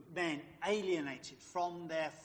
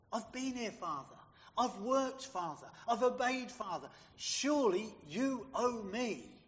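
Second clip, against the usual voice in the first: indignant elder son, pressing each claim, slowing on the last; self-righteous; 3 semitones higher, 3 dB louder than usual. Acted. Elder son to his father, self-righteous demand. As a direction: list your merits, then demand payment. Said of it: "Do you see the self-righteous attitude?".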